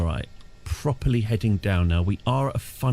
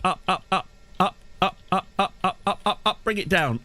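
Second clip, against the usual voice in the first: rising, urgent pleading; nagging backseat driver; 5 semitones higher than usual. Real, not acted. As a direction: urge it up, getting more frantic. Tense landing, urging plane up.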